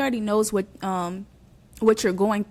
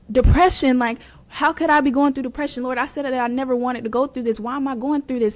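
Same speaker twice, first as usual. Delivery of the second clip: higher, louder protest to God; retold disbelieving plea, pitched up; upset questioning; 4 semitones higher, 4 dB louder than usual. Praying to God about depression, upset and questioning.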